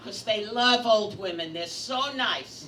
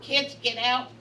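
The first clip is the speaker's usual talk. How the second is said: put-on loud, pounding-the-door bark at the kids; grandmother yelling; 3 semitones higher, 8 dB louder than usual. Grandmother pounding the bathroom door at the kids, loud and impatient.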